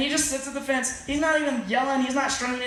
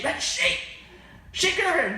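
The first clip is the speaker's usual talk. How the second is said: mock call; 7 semitones higher than usual. Calling sheep that won't come.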